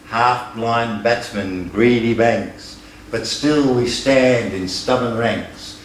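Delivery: measured, rhythmic verse reading with a strong beat; proud rhythmic recitation of a ballad; poem recitation. Acted. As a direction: recite it like a bush ballad to a hall. Recites a friend's last verse.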